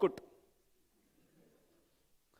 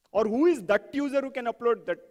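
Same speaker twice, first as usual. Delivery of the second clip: "that" punched before "user"; stress on THAT. Shown as a demonstration. Teacher probing the requirement, "that" stressed in the question. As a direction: lean on the first "that". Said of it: "let's do that for the".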